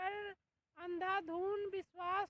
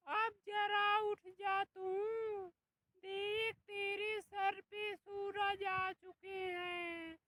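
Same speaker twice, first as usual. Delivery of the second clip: shrill-free mock scolding saas; scolding mother-in-law. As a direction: yell at a lazy daughter-in-law. Mother-in-law yelling to wake daughter-in-law.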